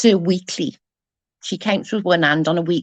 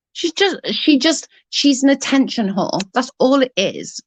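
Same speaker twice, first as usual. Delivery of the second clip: heated outburst; 5 semitones higher than usual. Real, not acted. Heated rant about rival.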